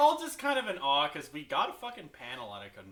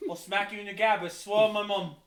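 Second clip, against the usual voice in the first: a hint of a cocky British kid; a lightly done British accent; 2 semitones higher than usual. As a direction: threaten in a bad British accent. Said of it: "This is not really British".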